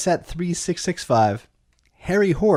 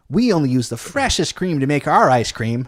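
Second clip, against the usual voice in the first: Clara Cow slogan. Pretend. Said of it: "do you wanna hear her slogan".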